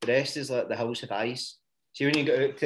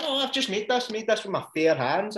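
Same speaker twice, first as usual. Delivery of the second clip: retold indignant refusal; 7 semitones higher than usual. Retelling refusal to a haggler.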